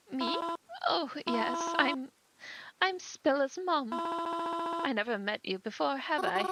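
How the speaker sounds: a mother startled at her daughter's funeral; grieving mother. Acted. Grieving mother greets a stranger at the funeral, gently.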